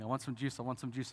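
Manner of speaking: lightly voiced whiny child, repeating; mild nagging child voice. Pastor voicing a child nagging for juice, light whine. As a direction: nag gently like a small kid wanting juice. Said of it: "Child nagging".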